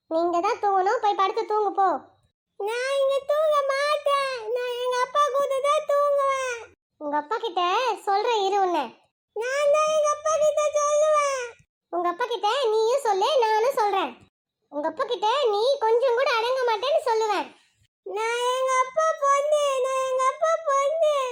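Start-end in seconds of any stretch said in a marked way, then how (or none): 2.6-6.6 high, slow stubborn refusal; stubborn kid. Acted. Child refuses the teacher's order to sleep. 9.4-11.4 put-on high child retort; cheeky kid. Child answers the teacher back. 18.1-21.2 put-on high, slow sing-song child boast; proud kid boast. Child boasts to teacher that she is daddy's girl.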